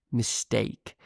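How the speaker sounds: standard British "Mistake" with a gliding "ay"; standard British accent. Shown as a demonstration. Teacher repeats it for English learners, standard British pronunciation. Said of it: "It's a softer sound".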